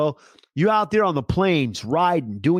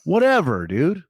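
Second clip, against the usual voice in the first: Rambo impression. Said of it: "he talks like this".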